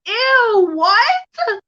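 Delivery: high, loud startled ew; disgusted ew. Real, not acted. Reacting to a fan's daddy comment, high disgusted squeal.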